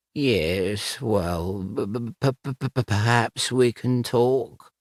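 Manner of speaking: quiet, frightened stammer; stammering quietly. Acted. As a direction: stutter out of terror. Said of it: "quietly as he could".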